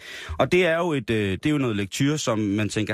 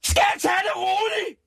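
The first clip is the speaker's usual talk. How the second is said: screaming Lotte. Acted. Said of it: "Skreg Lotte".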